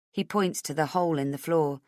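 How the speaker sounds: ordinary delivery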